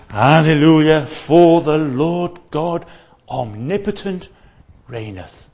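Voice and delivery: ringing, slow scripture reading; proclaimed scripture. Acted. Preacher reading Revelation aloud, proclaimed. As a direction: proclaim it from the pulpit.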